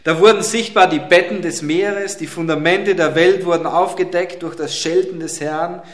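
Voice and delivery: solemn, weighty psalm reading; preacher reads the psalm to the congregation, solemn and weighty; scripture reading. Acted. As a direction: read the psalm like a grand proclamation.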